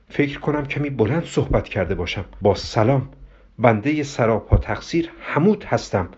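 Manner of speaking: formal, careful, deferential phone manner; very polite. Acted. Hamud apologises to Diana's mother on phone, very polite. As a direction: apologise with stiff, measured courtesy. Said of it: "آهسته با لحن خیلی مؤدبی گفت".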